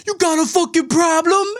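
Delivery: high-pitched mock confrontation; mock angry driver. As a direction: imitate an irate driver picking a fight. Retells road-rage driver confronting him.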